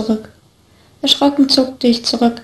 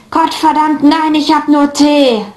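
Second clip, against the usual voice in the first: exasperated outburst; 4 semitones higher than usual. A narrator's reading. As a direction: lose patience and raise the voice on nein. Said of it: "wieder war ich lauter geworden".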